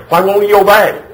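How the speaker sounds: high, loud mock yell; exasperated parent wail. Mom and dad complaining their child won't obey, exasperated parent wail. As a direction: cry out as a parent at wit's end.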